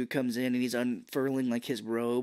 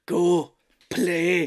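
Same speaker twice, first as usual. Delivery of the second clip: Tatsu; 5 semitones higher, 9 dB louder than usual. Retold or imitated. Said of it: "that's not even his real voice".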